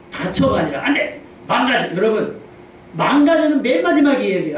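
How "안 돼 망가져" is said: high-pitched mock alarm; alarmed warning. Adult fearing a child will break things, alarmed. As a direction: cry out to stop the child.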